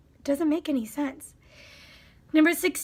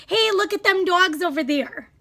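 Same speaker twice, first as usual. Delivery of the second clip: mock folksy; 3 semitones higher, 4 dB louder than usual. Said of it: "They'd say".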